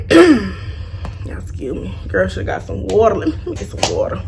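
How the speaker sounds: husky whisper after throat clearing; whispered apology. Real, not acted. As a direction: whisper it, voice gone.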